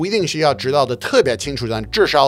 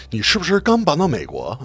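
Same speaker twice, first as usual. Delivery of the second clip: ad voice; 2 semitones higher than usual. Retold or imitated. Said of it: "说了一个广告".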